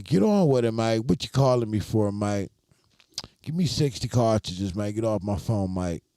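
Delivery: imitating brusque Aussie customers; mock-impatient Australian accent on the phone; rude Australian. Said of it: "Australian people are rude".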